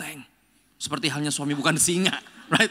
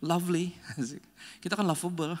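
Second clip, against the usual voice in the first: teasing, pleased-with-themselves tone, raised up; smug wives; 4 semitones higher than usual. Retold or imitated. Wives boasting to the pastor, smug and playful. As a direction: play the wife who thinks she has it easy. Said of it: "Istri-istri bilang kayak".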